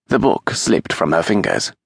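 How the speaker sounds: ordinary delivery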